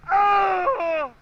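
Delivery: loud high yelp; cold shock gasp. Real, not acted.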